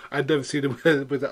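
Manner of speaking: words broken by real laughter; laughing while talking. Real, not acted. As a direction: talk through the giggles.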